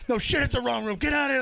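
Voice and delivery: very high, indignant outburst; hammed-up high-pitched annoyance; mock exasperation. Teammate sends Jay out of the wrong room, high mock indignation. Teammate throws intruder out, retold.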